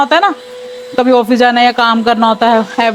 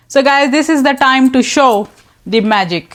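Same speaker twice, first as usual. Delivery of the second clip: dramatic reveal; much slower than usual. Real, not acted. Announcing robot mop reveal.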